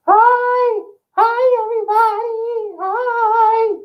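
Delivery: high falsetto mannequin voice; Val's voice. Acted. Vlogger voicing mannequin Val urging votes, high falsetto. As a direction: play the perky talking doll. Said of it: "Say hello".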